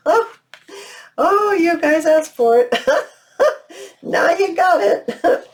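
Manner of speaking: high, amused laugh through the words; giggly, self-teasing delivery. Real, not acted. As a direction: laugh at yourself while admitting it. Laughs at her own rambling process.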